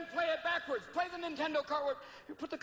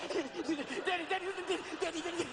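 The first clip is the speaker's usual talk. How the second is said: put-on hyper kid; 4 semitones higher than usual. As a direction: kid begging his daddy, pitch up. Kid on chocolate begging dad.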